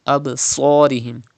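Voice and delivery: "Absarihim" with a heavy rounded "sor"; thick Sad. Shown as a demonstration. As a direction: darken the s syllable of "Absarihim". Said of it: "read with thicker voice".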